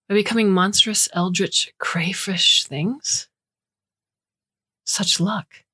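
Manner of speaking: put-on relishing, whispering faint Romanian accent. A narrator's reading. Guest marvelling at monstrous change, hushed Romanian accent. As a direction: savour the strange words in a hush. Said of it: "faint Romanian accent".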